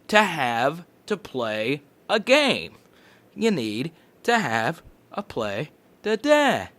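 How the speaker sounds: lightly voiced news anchor. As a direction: read it like a newscaster. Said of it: "I sounded like a news anchor".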